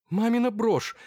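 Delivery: a startled exclamation; exclaiming. A narrator's reading. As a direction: cry out in surprise. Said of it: "воскликнула Ольга Змеева".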